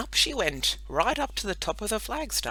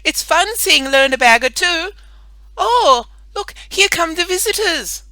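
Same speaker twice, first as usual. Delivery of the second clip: shouting down; 12 semitones higher, 15 dB louder than usual. Acted. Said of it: "shouted Ida".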